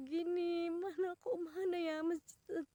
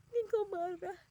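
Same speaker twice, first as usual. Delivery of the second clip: crying plea; 4 semitones higher than usual. Retold or imitated. Praying to God in tears, a tearful plea. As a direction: murmur the fear through crying. Crying prayer, repeated louder next.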